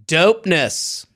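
slow, mock-cool drawl; hammed-up goofy texter, close to laughing; wannabe-cool dad. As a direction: savor the slang like a cringey dad. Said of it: "Okay, here's him".

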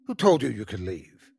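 a hint of menacing carnival man; sinister snarl. A narrator's reading. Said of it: "he snarled in a sinister voice".

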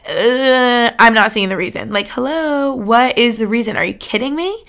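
crying out with a breaking voice; tearful disbelief. Retold or imitated. Daughter recalls grief, crying that she sees no reason. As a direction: protest through tears. Retold disbelief after father's death.

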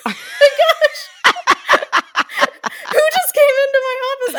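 very high, laughing "oh my gosh" then a fast squeal; laughing startled shriek. Retold or imitated. Keeper spooked by the parrot's voice, shrieking high with laughter. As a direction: shriek through laughter as if caught off guard. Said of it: "And I'm like".

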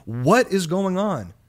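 scolding the network in disbelief; mock exasperated rant. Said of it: "I'm like".

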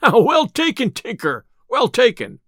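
high, hearty exclamation; amused cry. A narrator's reading. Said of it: "Loud laughed Robin, and cried".

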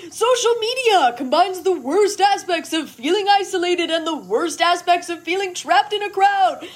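mocking sing-song recital of progressive talking points; weird voice. Senator mocking John's progressive worries in a weird voice. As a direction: parrot the online progressives mockingly. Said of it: "You said it in a weird voice".

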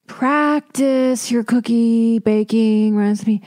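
mock teacher telling off a baker; mock scolding. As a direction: talk down to the baker slowly.

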